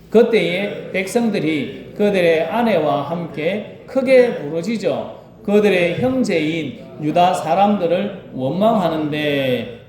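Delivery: slow, solemn Bible reading; scripture reading. Acted. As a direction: read the verse slowly and reverently. (천천히 성경 봉독)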